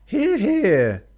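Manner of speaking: very high, loud shouted hear-hear; rowdy cheer. Acted. Crewman cheering the captain's toast, shouted high and loud. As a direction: bellow it across the mess table.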